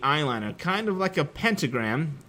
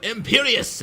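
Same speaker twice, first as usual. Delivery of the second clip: villain's shout; 9 semitones higher than usual. A narrator's reading. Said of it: "Voldemort shouted".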